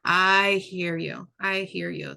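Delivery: put-on slow, soothing reassurance to a frustrated child; calm validating voice. Shown as a demonstration. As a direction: gently acknowledge the feeling, slowly. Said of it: "I might say something like".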